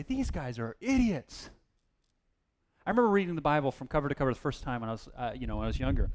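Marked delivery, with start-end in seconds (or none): 0.0-1.5 slow, scornful remark; slow scornful verdict. Retold or imitated. Young Bible reader judging the Israelites, slow and scornful. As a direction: drag it out, unimpressed. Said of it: "I used to read the story and say".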